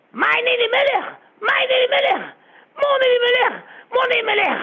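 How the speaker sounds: high, loud wailing cry. Acted. Rabbi cries out for his son, wailing cry. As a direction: wail the name in grief. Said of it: "Il s'est mis à crier".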